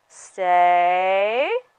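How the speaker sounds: calm, soothing voice. Speaker demonstrating a command to a dog, soothing tone. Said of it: "use soothing tones in my voice".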